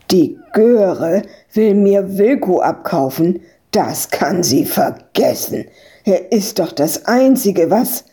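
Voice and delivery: lightly voiced disgruntled farmer, breaking off mid-sentence; indignant farmer. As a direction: refuse as an affronted farm owner, with restraint. Voices Freak in dispute.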